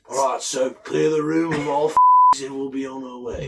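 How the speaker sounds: loud game announcer, laughing; shouted announcer. Pretend. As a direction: bark orders like an announcer. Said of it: "You sound just like him".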